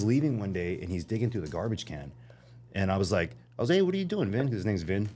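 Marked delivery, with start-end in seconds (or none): 3.7-4.5 high-pitched call-out, retold; retold surprised call. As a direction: call over to him in a much higher voice. Calls out to man at bin.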